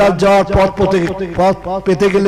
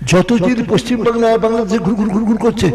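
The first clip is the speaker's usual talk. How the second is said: raised, scolding sermon voice; preaching. Acted. Preacher scolds the villagers about jinn and imams, raised. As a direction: lecture the crowd, chiding them.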